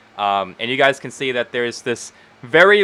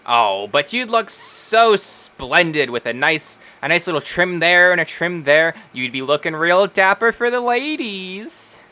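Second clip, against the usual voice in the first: flattering halfling Wendy; 6 semitones higher than usual. Acted. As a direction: sweet-talk a reluctant customer, stretching the praise. Voices Wendy flattering tiefling.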